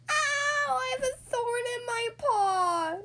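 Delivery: high, loud pained howl. Acted. Splat with a thorn in his paw, high pained howl. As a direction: howl it like a thorn just stuck. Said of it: "Splat howled".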